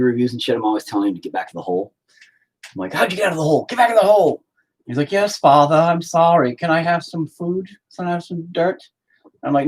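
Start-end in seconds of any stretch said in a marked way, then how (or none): 2.9-4.4 higher, loud scolding order; mock stern father. Acts stern father ordering son. 5.1-8.8 high, meek put-on son voice; pleading child.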